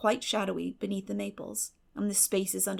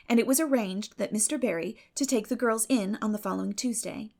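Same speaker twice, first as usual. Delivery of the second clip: usual speaking voice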